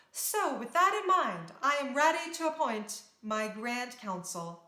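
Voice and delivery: a hint of a princess's speech; formal speech. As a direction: address the royal ball with modest dignity.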